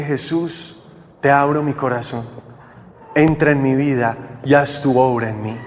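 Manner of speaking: low, subdued prayer of surrender; retold prayer. Retold prayer after kneeling in tears.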